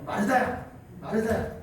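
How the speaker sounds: calling a name sharply, pitch rising at the end; scolding call. Shown as a demonstration. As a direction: call her name like a rebuke. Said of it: "제가 이렇게 읽지 않았죠?".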